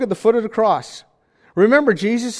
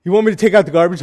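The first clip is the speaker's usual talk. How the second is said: put-on eye-rolling teenager; 4 dB louder than usual. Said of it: "teenager rolling their eyes and going".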